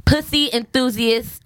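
reading her profile. Retold or imitated. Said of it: "her thing says".

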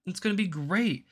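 quick, mocking sing-song of a smug official; mock cheerful announcer, rattled off; mocking WEF voice. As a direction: sneer it like a bureaucrat promising paradise. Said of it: "being like".

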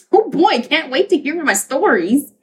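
eager radio listener. Acted. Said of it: "like, listening intently".

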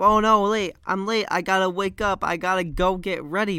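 mock panic. Vlogger voicing Greg waking up late, mock panic. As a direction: act out waking up late in a fluster.

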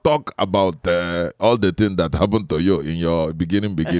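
put-on halting Igbo host's accent. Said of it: "mine is an Igbo man".

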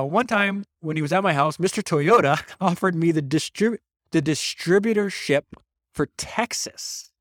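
a light Texas drawl on the quote; Texas accent. Retold or imitated. Host reads Shelby's book quote, mild Texas accent. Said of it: "I have Shelby's Texas accent".

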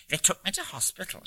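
put-on chatty old woman from the English North Country; North Country accent. A narrator's reading. Old lady answering a stranger on the ferry, North Country accent. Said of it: "in an English North Country accent".

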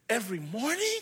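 rising, delighted question; can't believe his luck; boy's surprised rising question; hopeful boy. Acted. Boy asks in disbelief.

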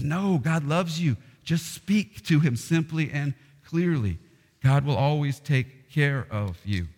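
reassuring Jesus. Retold or imitated.

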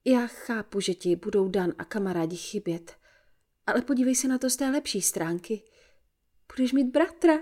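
mother hamming up the good news; excitedly. Acted. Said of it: "vykřikla nadšeně".

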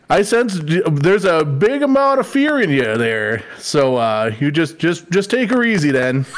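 folksy, lilting Minnesotan wisdom; hammed-up good old Minnesota accent. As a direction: play a Minnesotan sage with rounded vowels. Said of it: "say it in a good old Minnesota accent".

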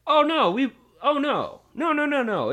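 high-pitched flustered denial; panicked kid protest. Retold or imitated. Caught kid protests to recess monitor, high and panicked. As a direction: plead innocence in a high voice.

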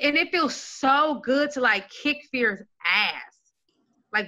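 ordinary talk, nothing marked

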